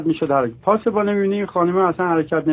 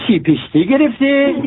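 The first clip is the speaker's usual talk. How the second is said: puzzled father; 7 semitones higher than usual. Acted. Father mishears the degree.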